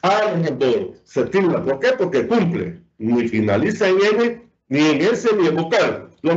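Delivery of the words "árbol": "Árbol" stressed on "Ár", falling after it; stress on first syllable. Shown as a demonstration. Teacher repeating the example word, stress on "Ár" in "Árbol". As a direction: hit "Ár" in "Árbol" and drop away on "bol". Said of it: "que es la sílaba ar".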